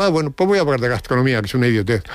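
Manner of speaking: quick, ironic retold shrug-off; mock-casual irony. Banned host switching to gastronomy in protest, ironic. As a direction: toss it off with mock nonchalance. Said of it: "irónicamente ha dicho".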